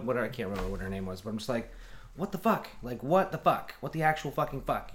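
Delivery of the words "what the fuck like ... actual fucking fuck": high-pitched, incredulous retold outburst; exasperated disbelief. Man on hold to his heckling girlfriend, exasperated.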